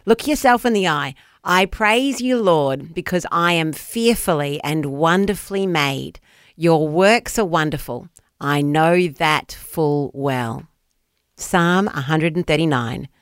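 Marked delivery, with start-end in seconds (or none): 0.0-10.7 slow, solemn Bible reading; scripture reading. Acted. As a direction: read it reverently, slowing down. Reads scripture verse slowly.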